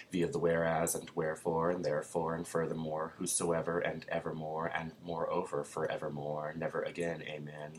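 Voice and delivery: rolling the wordy string with mock grandeur; playful pompous litany; relishing word play. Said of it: "such mouthfuls should be outlawed".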